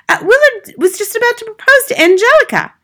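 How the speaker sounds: very high, loud put-on wail; crying out. A narrator's reading. Wife missing her TV romance, crying out. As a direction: protest in a piercingly high voice. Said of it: "Missus Wormwood cried out".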